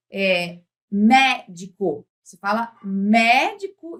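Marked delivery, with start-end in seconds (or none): 0.9-2.1 MÉDICO very slow, with a wide open É; open vowel. Shown as a demonstration. Teacher showing an open accent, MÉDICO slowly with open É. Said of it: "acento aberto é assim". 2.8-4.0 MÉDICO with a clearly open É; open vowel. Shown as a demonstration. Teacher repeating the example, MÉDICO with open É. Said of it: "isso é uma vogal aberta".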